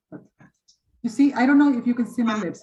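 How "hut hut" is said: "hut, hut" mouth nearly closed, short lax u. Shown as a demonstration. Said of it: "almost like hut".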